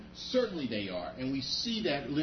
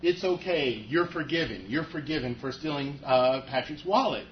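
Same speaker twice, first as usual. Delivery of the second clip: breezy forgiving pastor; 2 semitones higher, 6 dB louder than usual. Retold or imitated. Pastor forgives the wallet thief, loud and breezy. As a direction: brush the theft aside cheerfully. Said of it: "if Pastor Brady says".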